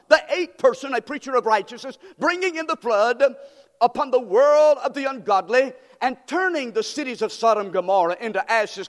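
preaching at full force. Acted. Preacher proclaiming the verses to his congregation, fervent. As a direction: thunder the verses out to the church. Preacher reads scripture with fire.

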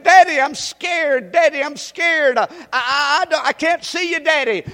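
put-on a small girl calling down, scared of the dark; scared little girl. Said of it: "The little girl ... was saying".

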